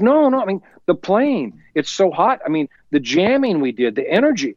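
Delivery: bursting with high-pitched excitement; excited. Retold or imitated. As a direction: gush about the playing, voice jumping up high. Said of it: "And he's, like, really excited".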